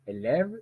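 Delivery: "élève" with the first syllable punched; wrong stress. Shown as a demonstration. Teacher showing what not to say, early stress on "élève". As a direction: hit the opening "é" of "élève". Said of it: "on ne dit pas élève ou élevé".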